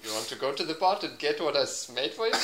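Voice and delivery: put-on Indian voice; playful Indian accent. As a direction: coax in a mock-Indian accent.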